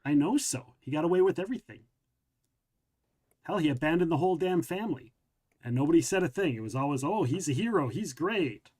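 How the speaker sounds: heated, rising complaint with swooping emphasis; resentful rant. Acted. Ronnie rants to Dad about the brother who left, resentful. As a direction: let old resentment pour out.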